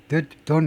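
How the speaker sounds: "The don't" as a blurred "thut don't"; weak THAT before don't. Shown as a demonstration. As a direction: let the vowel in "The" shrink before "don't". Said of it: "하면 안 돼요". ("The don't"를 '듯 돈'으로 약화해서)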